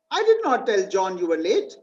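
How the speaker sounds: "did" pushed with a rise; stress on DID. Shown as a demonstration. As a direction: lean on "did" to deny it happened. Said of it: "This did not happen".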